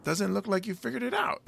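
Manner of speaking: under-the-breath whisper; whispered aside. Retold or imitated. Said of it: "it's like".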